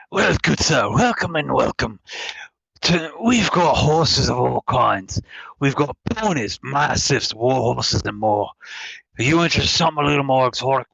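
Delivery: lightly voiced sly shopkeeper; a hint of a sly merchant pitch; Resident Evil Four merchant. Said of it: "Resident Evil Four merchant voice".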